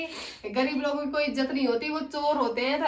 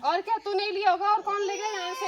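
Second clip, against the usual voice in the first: raised, insistent questioning; angry accusation; 4 semitones higher than usual. Acted. Employer insisting the maid took it, angrily. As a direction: corner her with accusing questions.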